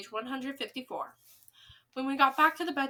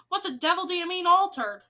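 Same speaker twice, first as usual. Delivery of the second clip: higher, louder furious shout; 6 semitones higher, 7 dB louder than usual. Acted. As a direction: demand it at the top of your voice. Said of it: "shouted Mister Jenkins".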